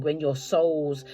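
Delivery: halting, slowed speech tangled in fillers; losing the words and stumbling; stuttering. Real, not acted. Tarot reader to viewers, stumbling and slowed down. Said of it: "I'm stuttering".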